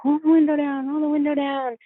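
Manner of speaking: imitating a girl yelling through a car window; retold screaming. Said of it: "she's screaming".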